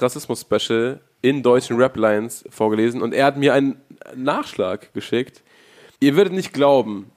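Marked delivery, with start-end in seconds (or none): 6.0-7.1 hyped headline tease; clickbait video narrator. Pretend. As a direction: sell it like a viral video. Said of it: "die Weiß-Headline vorwegzunehmen".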